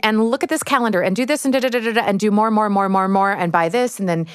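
hurried imitation of pushy advice, piling up; mock sales patter. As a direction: rattle off a relentless list of product pitches. Mimicking consumer marketing messages.

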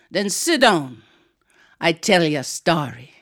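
lightly deep-voiced island aunt; Aunt Queenie. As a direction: settle the child with a firm aunt's voice. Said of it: "she had a deep, deep voice".

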